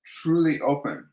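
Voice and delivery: "truly open" said slowly and deliberately; slow, weighted "truly open", falling at the end; emphatic truly open. Shown as a demonstration. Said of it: "they're really emphasizing the words truly".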